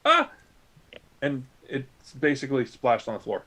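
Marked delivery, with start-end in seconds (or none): 0.0-0.3 short mock "ah"; quick yelp imitating someone slipping up mid-run; brief acted-out exclamation; imitated startled cry. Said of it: "you were running and you went".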